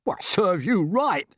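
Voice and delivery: slow, high creature voice; smug retort. A narrator's reading. Earthworm mocking the hurt centipede, smug. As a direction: gloat a little. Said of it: "said the earthworm".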